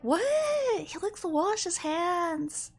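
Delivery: a puzzled friend; baffled. Retold or imitated. Retelling her baffled reaction.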